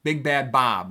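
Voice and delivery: Big Bad Bob in three equally weighted beats; triple stress. Shown as a demonstration. Teacher giving a famous phrase, Big Bad Bob stressed on every word. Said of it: "triple masculine".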